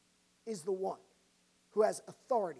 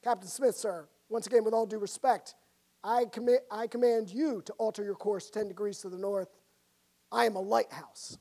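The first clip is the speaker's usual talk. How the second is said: chilling calm reply. Acted. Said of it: "The private's final transmission was chilling".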